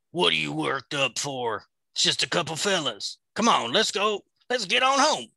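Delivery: talking the wolf into heading home, rising excitement; excited. Acted. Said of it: "You got a little excited there".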